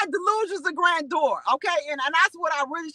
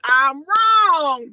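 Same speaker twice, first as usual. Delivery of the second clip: admitting fault; 7 dB louder than usual. Retold or imitated. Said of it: "Sometimes you just have to say".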